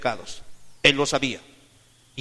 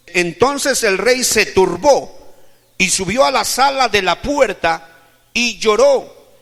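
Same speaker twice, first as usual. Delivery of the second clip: loud, raised, ringing Bible reading; declaimed scripture reading; 7 semitones higher, 10 dB louder than usual. Real, not acted. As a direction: proclaim the verse to the congregation. Declaims scripture at full force. (lectura bíblica declamada con fuerza)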